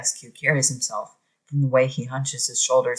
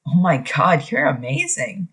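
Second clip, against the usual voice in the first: awed exclamation; 3 semitones higher, 4 dB louder than usual. Acted. Uncle stunned by his nephew's drawing, excited gasp of praise. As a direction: gush over the drawing like you can't believe it.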